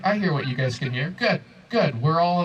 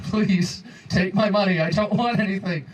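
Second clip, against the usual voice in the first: whiny pleading plea, pitched up; begging, higher; 4 semitones higher than usual. Retold or imitated. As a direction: beg them to stop. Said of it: "And I'm like".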